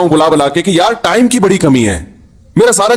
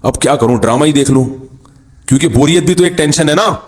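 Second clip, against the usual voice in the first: mocking bored youth; 6 semitones lower than usual. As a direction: lower mock whine of a bored young man. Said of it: "کہہ رہے ہیں".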